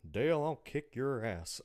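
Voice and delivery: gruff Texan dad threat; Hank Hill voice. Retold or imitated. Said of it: "You are way too good at that voice".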